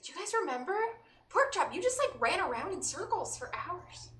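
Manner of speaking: high-pitched, eager reminiscing. Acted. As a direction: point it out excitedly to a friend. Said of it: "I wanna eagerly point it out to Chad".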